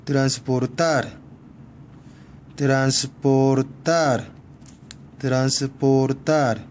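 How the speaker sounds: 트란스포르타르 syllable by syllable, stressed on 타르. Shown as a demonstration. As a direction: land on the final 타르 in 트란스포르타르. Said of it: "맨 끝에 모음에 오는". (트란스포르타르의 끝 '타르'에 강세)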